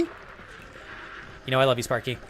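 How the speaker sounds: soft, slow whisper; whispered affection. Pretend. Whispering love to a viewer named Sparky. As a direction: breathe it to Sparky, slowly.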